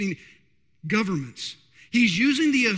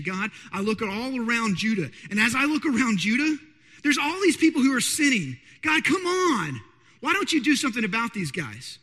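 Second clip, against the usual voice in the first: protesting prophet; 2 semitones higher than usual. Retold or imitated. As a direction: plead with God, building to a complaint. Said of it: "He starts screaming and protesting".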